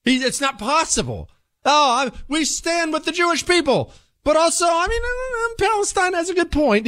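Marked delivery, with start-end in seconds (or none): 1.6-6.9 very high, hammed-up waffling politician; mock Biden voice. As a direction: squeak it like a dithering old man. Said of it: "He's run up against the tightrope".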